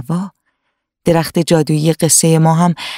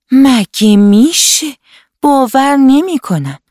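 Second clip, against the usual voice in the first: higher, slow, drawn-out disbelief; disbelieving little girl; 7 semitones higher, 3 dB louder, slower than usual. Acted. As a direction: step back and refuse to believe it. Hana steps back, disbelieving. (دختربچهٔ ناباور، آهسته و کشیده)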